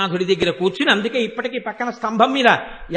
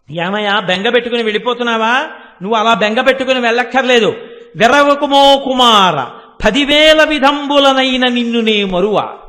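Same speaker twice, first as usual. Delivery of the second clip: goddess calling out; 6 dB louder than usual. Retold or imitated. Goddess to weeping Vyasa leaving Kashi, loud reassuring cry. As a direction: call out reassurance, building to loud sustained verse. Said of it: "అమ్మవారు పెద్ద అరుపరిచిందిట".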